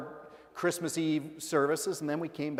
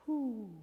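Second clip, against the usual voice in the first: settling whoosh; 8 semitones higher, 5 dB quieter than usual. Retold or imitated. Imitates baby settling in his arms.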